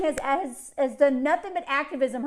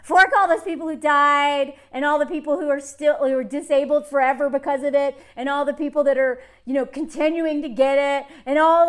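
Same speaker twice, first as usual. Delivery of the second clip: angry rant; 5 dB louder than usual. Real, not acted. Angry rant at pandemic profiteers.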